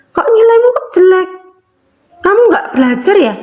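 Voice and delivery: high-pitched accusing parent; mock an angry parent demanding answers; scolding parent. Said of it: "Dimarah-marahin kan anak-anaknya".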